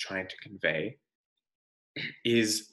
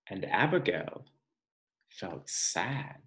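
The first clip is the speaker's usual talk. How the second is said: touch of sadness; 3 semitones lower, 4 dB quieter, slower than usual. Acted. Sad turn in story.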